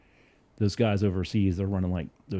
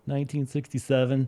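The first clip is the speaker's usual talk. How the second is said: higher, stubborn same answer; deadpan repeat; 6 semitones higher than usual. Retold or imitated. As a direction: repeat it flatly as if obvious.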